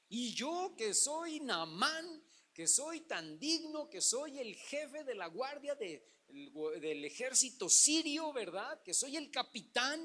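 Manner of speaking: slow, lightly voiced haughty general; a hint of a pompous captain bragging; proud Naaman. Preacher voicing Naaman boasting of his rank, slow mock pride. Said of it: "voices proud Naaman".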